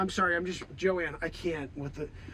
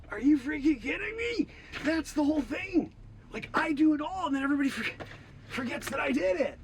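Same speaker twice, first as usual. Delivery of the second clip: indignant complaint; 5 semitones higher than usual. Acted. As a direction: complain that you're being erased again. Outrage at Mandela credit.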